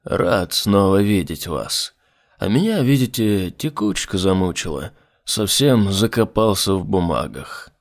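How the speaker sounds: pleasant low voice of a demon. Acted. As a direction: speak low and smooth as the demon. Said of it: "приятным низким голосом проговорил демон".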